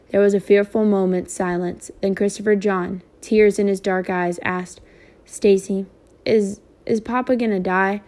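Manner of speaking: even, steady read-aloud narration; story narration. A narrator's reading. Teacher reading a novel chapter to students, steady narration.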